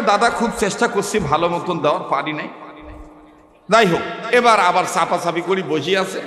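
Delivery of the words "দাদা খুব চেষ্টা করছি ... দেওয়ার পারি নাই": the man apologizes to his angry neighbour; sheepish apology. Retold or imitated. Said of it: "তো এবার ডাক দিয়ে কয়". (নিচু লজ্জিত গলায় ক্ষমা)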